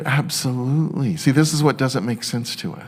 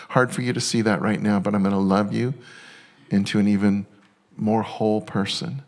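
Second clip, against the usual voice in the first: God reassuring gently. Retold or imitated. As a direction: lean in and promise to carry them through. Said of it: "He's like".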